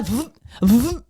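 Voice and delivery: imitated buzz. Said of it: "just there".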